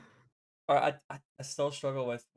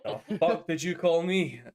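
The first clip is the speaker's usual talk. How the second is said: slow, mock-indignant Glasgow retort; angry Glaswegian; 3 semitones higher, 4 dB louder, slower than usual. Scot retorting when someone calls them English. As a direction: bristle in broad Glaswegian, slowly. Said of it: "the voice that comes out when someone calls me English".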